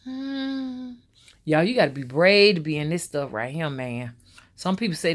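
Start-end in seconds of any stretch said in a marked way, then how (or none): 0.0-0.9 imitated hum. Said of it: "She just keep".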